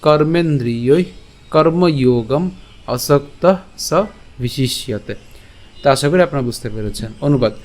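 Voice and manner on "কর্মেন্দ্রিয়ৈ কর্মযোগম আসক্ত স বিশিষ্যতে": slow, measured Sanskrit shloka; verse recitation. Shown as a demonstration. Teacher gives the class today's shloka, slow recitation. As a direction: recite each phrase with drawn-out vowels. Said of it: "তাহলে আমি আবার যদি বলি".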